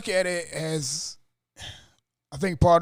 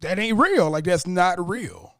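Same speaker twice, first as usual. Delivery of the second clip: high, emphatic retold disbelief; disbelieving; 5 semitones higher, 4 dB louder, slower than usual. Fan replaying his thoughts on the pick, disbelieving. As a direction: refuse to believe it, raised pitch.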